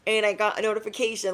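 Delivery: very high, loud squeal of surprise; thrilled high gasping discovery; excited squeal. Acted. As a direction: shriek it out amazed. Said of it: "this magical game of".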